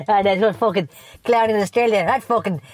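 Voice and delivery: foul-mouthed ranting pub character, lightly voiced; Seamus O'Cunt rant. Comic character rants at listeners about Christmas shoppers, lightly voiced. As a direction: grumble and swear through a festive rant. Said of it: "this has been Seamus O'Cunt".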